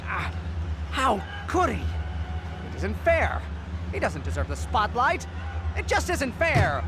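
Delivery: whiny sulk. Acted. Villain Beck sulking over losing.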